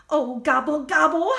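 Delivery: a touch of a wailing turkey; mock howl. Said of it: "howled Turkey".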